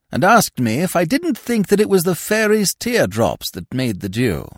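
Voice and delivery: high-pitched fussy peer grumbling; indignant lordship airing a grievance; exasperated lord. A narrator's reading. Lordship complains of Miss Peavy.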